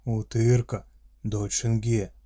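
loud gruff orc growl; friendly monster voice. Acted. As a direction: growl it with fatherly pride. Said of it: "прорычал орк".

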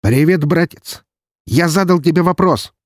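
high, loud demanding shout; angry. Acted. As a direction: snap the question at him. Angry brother on phone.

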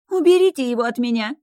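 high, loud panicked shriek; shrieking in fright. Acted. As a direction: scream to get him away. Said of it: "визжала Эрика".

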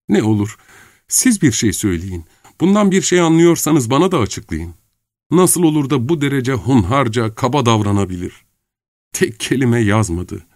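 put-on bewildered girl demanding answers; young woman Nastenka.

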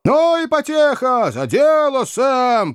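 very high, rowdy cheering on; encouraging shout. A narrator's reading. Cabmen cheering on their mate Sam, encouraging high shout. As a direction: egg him on in a high cry. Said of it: "поощрительно закричали несколько наёмных кучеров".

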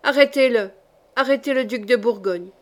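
grating order. Acted. The king orders his guards to seize the duke, harsh. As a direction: bark the arrest order, grinding. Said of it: "grinça la voix du roi".

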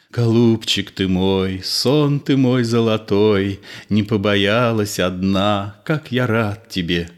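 cherish every word, slowly; tender, slow. Acted. Fyodor tenderly welcoming Ninochka, slow and loving.

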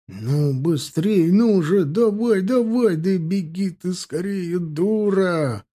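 willing her on in rising alarm; anxious urging. A narrator's reading. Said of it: "волновались".

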